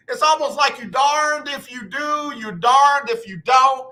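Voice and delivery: loud, exasperated rant; exasperated shout. Real, not acted. To the sisters about dating, a loud exasperated shout. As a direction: throw your hands up and shout it.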